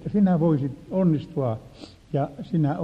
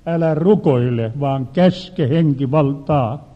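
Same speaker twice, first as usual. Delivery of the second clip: firm, slow, louder divine command; voice of the Lord; 4 dB louder, slower than usual. Retold or imitated. God telling the preacher to command, slow and firm. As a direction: let each word land slowly as a command from above. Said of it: "Silloin kuului sanat".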